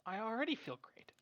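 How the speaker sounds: soft hushed whisper. Acted. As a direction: whisper it back. Character whispers in scene.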